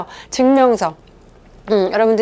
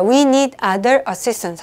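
"we need other assistant" read slowly once more; slow, steady repeat; much slower than usual. Shown as a demonstration. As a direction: repeat the quiz sentence slowly for the count. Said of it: "삼 초만 드릴게요".

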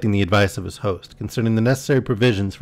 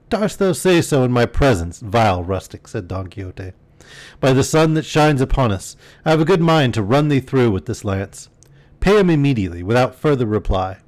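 indignant knight; 2 semitones higher than usual. Acted. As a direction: threaten the rustic with grand fury. Knight threatens the master.

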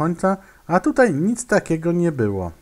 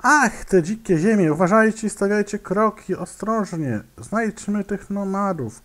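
mild pharaoh call; 5 semitones higher than usual. Acted. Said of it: "krzyknął faraon".

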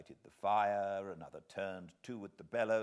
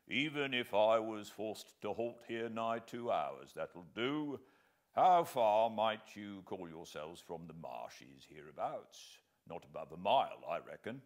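a hearty army sergeant reckoning aloud; 4 dB louder than usual. Acted. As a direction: bluff soldier's voice. Sergeant voiced in the story.

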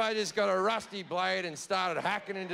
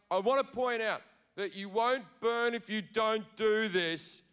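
God wheedling for one more favour; God pipes up; 2 semitones higher than usual. Retold or imitated. God asking the partygoers to sing about him, wheedling. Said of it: "He pipes up again".

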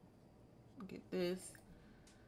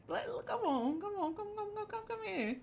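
much higher, eager come-here calls; eager calling; 13 semitones higher than usual. Acted. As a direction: beckon her in, all excited. Eager calling her inside.

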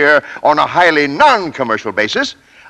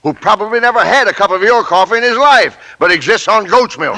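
furious rant; 3 semitones higher than usual. Acted. Company president fuming to his radio announcer about contests, blustering anger. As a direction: fume and sputter at the pointless contests. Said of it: "is percolating furiously".

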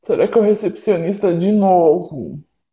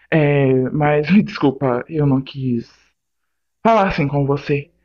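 sheepish apology; 4 semitones lower than usual. Acted. Pede desculpas à sogra.

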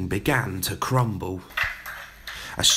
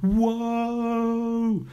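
high, long piercing wail; 13 semitones higher than usual. A narrator's reading. Teacher wailing at the headmistress, high and piercing. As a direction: let out a glass-shattering wail. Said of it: "she wailed in reply".

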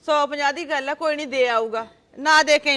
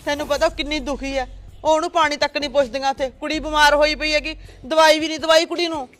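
heated defence; 3 dB louder than usual. Acted. Mother defends herself heatedly.

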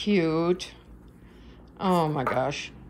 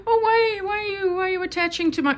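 laughing protest; 11 semitones higher than usual. Real, not acted. Cat grabs her, she laughs.

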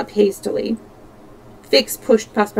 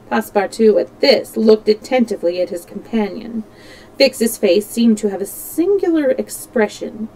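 plain reading voice

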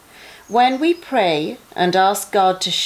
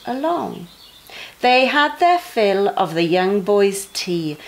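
lively rhyming storybook read-aloud; sing-song story voice for kids at bedtime; reading to children. A narrator's reading. Parent reading a rhyming Bible story to young children, bouncy and expressive.

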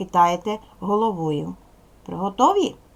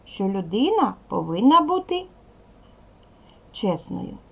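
model answer; 2 semitones higher than usual. Shown as a demonstration. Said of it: "Розказуйте так".

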